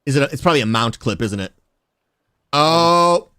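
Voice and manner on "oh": surprised oh. Real, not acted. Notices his top clip.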